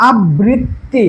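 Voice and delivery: আবৃত্তি split as "ab-brit-ti"; doubled consonant. Shown as a demonstration. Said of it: "যুক্ত বর্ণটা আমি দুইবার দ্বিতীয় উচ্চারণ করে দিব".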